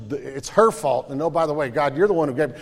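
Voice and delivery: ordinary delivery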